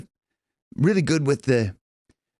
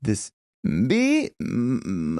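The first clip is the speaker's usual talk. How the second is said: vocal fry; 3 semitones lower, much slower than usual. Shown as a demonstration. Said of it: "almost kind of vocal fry".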